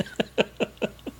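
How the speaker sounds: quiet, breath-only chuckle; soft laugh. Real, not acted. Co-hosts joking about spilled food, soft laughter. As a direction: let out a real, voiceless chuckle. Amused after self-deprecating remark.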